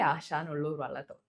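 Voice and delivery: "ആശാൻ ഉള്ളൂർ വള്ളത്തോൾ" in a low, soft list tune. Shown as a demonstration. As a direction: recite "ആശാൻ ഉള്ളൂർ വള്ളത്തോൾ" quietly as one memorised phrase. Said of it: "ആ ഒരു ഈണത്തിലാണ് പറയുക".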